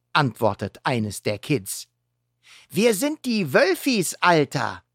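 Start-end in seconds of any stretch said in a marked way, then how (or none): 2.7-4.8 put-on cheeky wolf kid. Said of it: "ergänzt ein anderes".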